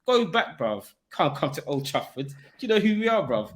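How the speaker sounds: high, loud gloating banter; rowdy trash talk, pitched well up; mock taunting. Football fan ribbing rivals over a home win, mock taunting.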